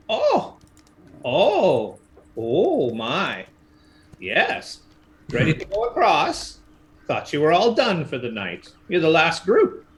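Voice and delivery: lightly voiced old ferrywoman; a hint of a creaky crone; old lady voice. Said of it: "creaky old lady with a lantern".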